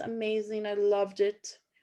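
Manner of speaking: ordinary talk, nothing marked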